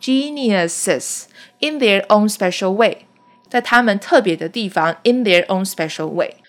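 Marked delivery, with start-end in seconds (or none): 0.0-3.0 slow teaching read, Geniuses with a clear ES ending; Geniuses, final ES sounded. Shown as a demonstration. Teacher slowly voices the ES in Geniuses. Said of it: "E要发音哦".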